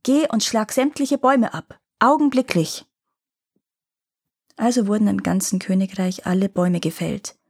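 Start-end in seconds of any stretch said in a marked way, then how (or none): 0.0-2.8 commanding king. Acted. King orders trees cut down.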